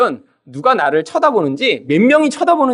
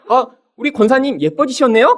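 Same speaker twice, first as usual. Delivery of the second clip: admiring compliment; 4 semitones higher than usual. Acted. Acted compliment to church lady.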